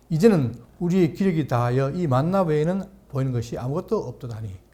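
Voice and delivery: measured, solemn Bible reading; scripture reading. Acted. Pastor reading Numbers to the congregation, solemn reading.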